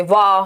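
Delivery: "वा" held long as one syllable; single syllable. Shown as a demonstration. Teacher showing a one-beat word, drawn-out single syllable. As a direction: stretch "वा" in a single sound. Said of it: "जिसमें एक ही बार syllable लगे".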